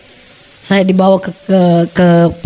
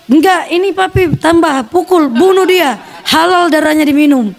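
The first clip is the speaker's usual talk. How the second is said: higher-pitched mock goading mother; retold egging-on; 4 semitones higher than usual. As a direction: urge the beating on, imitating her. Mother urging father to beat him. (menghasut dengan geram, tiruan)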